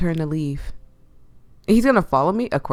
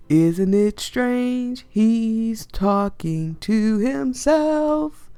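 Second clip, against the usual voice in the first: slow mocking; 5 semitones higher, much slower than usual. Mocking singsong about him.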